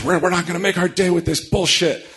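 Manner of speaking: high-pitched retold exasperation; imitated angry rant. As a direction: mimic a fed-up crew member's outburst. Acting out the angry crew member.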